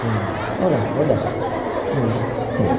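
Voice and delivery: mimicking someone weeping on camera; half-hearted, hammed-up whimpering; mock crying for camera. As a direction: put on a show of holding back tears. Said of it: "Ada juga orang mau nangis, hidupkan kamera dulu".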